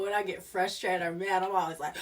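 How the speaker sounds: ordinary talk, nothing marked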